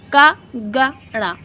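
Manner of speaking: का, ग, ड़ा at normal volume with no breath; का, ग, ड़ा light and clean; unaspirated demo. Shown as a demonstration. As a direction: say का, ग, ड़ा plainly, without aspiration. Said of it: "इनमें नॉर्मल आप वॉल्यूम लग रही है".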